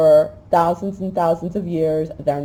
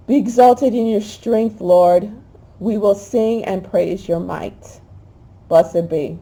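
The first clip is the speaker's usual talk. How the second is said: slow, swelling praise with a catch of feeling; emotional psalm reading; 2 semitones higher, slower than usual. Acted. Preacher praying the psalm aloud, moved, slow and swelling. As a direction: lift the words up to the Lord.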